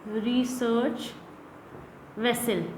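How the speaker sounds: रशियन रिसर्च वेसल said slowly, word by word; slow model reading. Shown as a demonstration. Teacher modelling रशियन रिसर्च वेसल slowly for the students. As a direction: spell it out slowly for them. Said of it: "teacher models the words slowly".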